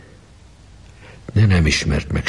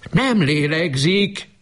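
much higher, slow, desperate cry of "Nem lélegzik"; anguished cry; 12 semitones higher, slower than usual. A narrator's reading. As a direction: cry it out, ignoring everything. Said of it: "kiáltott most hangosan". (kétségbeesett, hangos kiáltás)

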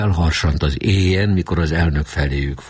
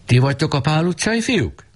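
high, raised call from the doorway; 11 semitones higher than usual. Acted. Bearded man calling from the doorway, raised and high. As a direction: call out to the boys from the gate. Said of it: "és bekiáltott".

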